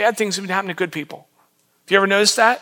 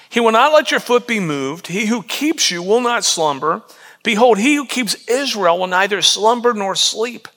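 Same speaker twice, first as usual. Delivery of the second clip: measured, reverent reading; scripture reading. Acted. Pastor rereading verses to the congregation, reverent.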